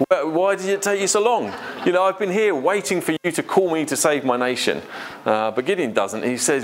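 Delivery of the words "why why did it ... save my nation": higher, mock-impatient eager volunteer; mock impatience. Preacher voicing a smug volunteer, lightly mock-impatient. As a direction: play the keen one who's been waiting for the call.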